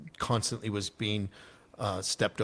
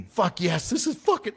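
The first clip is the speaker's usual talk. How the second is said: re-enacted whoop of elation, pitched way up; retold hollering; 10 semitones higher, 4 dB louder than usual. Veteran retelling his first parachute jump, elated hollering. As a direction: holler it high like you're mid-jump. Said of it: "I'm screaming, I'm yelling".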